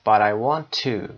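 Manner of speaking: slow phrase ending on a full "to", like too; stressed final "to". Shown as a demonstration. Teacher showing ellipsis to learners, stressed "to". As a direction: keep "to" strong at the end. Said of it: "When it is used in ellipsis".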